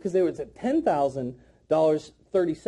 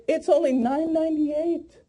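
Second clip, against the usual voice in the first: higher, lifted "only nine ninety-eight"; light price reveal; 6 semitones higher than usual. Shown as a demonstration. Trainer modelling the second drop, high and light. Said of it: "then we say".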